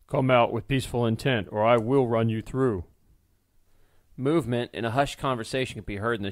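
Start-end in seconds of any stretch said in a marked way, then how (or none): 0.1-2.8 mild stern warning, slightly louder; threatening. Acted. Blacksmith threatens the hidden intruder, a mild stern warning. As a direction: warn the intruder without shouting. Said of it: "Archibald threatened".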